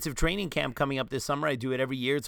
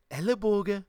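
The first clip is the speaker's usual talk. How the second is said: Ellenbogen with a raised, sing-song Swabian tune; Swabian intonation; 6 semitones higher than usual. Shown as a demonstration. Demonstrating the odd Swabian tune on Ellenbogen. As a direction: lift the pitch on Ellenbogen like a Swabian. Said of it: "with that weird intonation".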